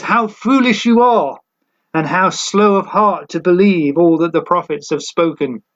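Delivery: Jesus rebukes the two disciples, mildly rebuking. Retold or imitated. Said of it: "rebuking first line that he says".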